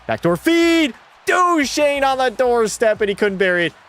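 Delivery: excited broadcaster call of a chance; play-by-play call. Acted. Streamer as announcer calling a missed chance. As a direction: build the call and land on the save.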